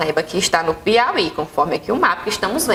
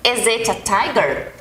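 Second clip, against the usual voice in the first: slow question model; slower than usual. Shown as a demonstration.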